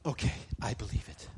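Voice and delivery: acted acceptance after a gasp, fuller voice; quick gasp, then mild agreement; ready acceptance. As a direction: take it on readily, voice still firm.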